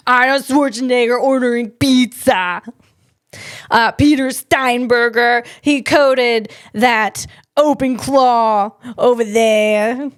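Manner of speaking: badly faked Austrian accent; Arnold Schwarzenegger impression. Podcaster describing the Austrian coder in a mock Austrian accent. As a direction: keep the mock-Austrian voice going. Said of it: "how you do that Austrian accent".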